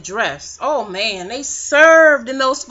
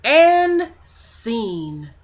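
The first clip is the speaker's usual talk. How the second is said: mock director. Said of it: "Like somebody was like".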